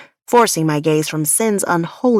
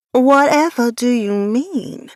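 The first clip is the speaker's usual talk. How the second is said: put-on southern accent; 5 semitones higher, 4 dB louder than usual. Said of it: "my southern accent needed a bit of work".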